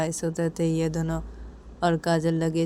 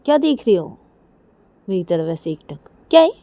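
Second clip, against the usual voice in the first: put-on girl character voice; 2 semitones higher, 7 dB louder than usual. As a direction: play the puzzled friend. Voiced girl questioning friend.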